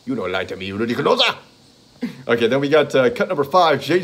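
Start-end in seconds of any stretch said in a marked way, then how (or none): 0.0-1.4 angry accusation. Retold or imitated. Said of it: "he goes".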